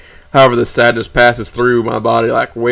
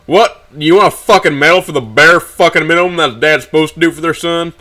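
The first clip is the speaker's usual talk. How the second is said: high-pitched, incredulous sarcastic rant; angry outburst; 6 semitones higher, 3 dB louder than usual. A narrator's reading. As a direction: erupt with furious sarcasm. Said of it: "My outburst is met with".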